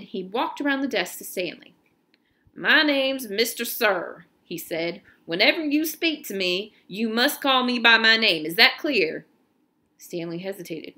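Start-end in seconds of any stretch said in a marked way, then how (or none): 2.5-4.3 stern camp officer. Acted. Camp officer introduces himself sternly. 5.2-9.3 louder, hard-edged order from a camp boss; stern commanding officer. Acted. Officer lays down rules to Stanley.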